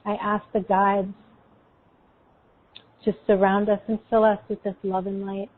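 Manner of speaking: calm, unhurried meditation guide; guided meditation. Acted.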